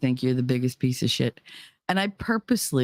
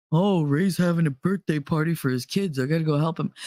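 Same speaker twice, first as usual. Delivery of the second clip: mocking the ex. Mocking the ex's excuse.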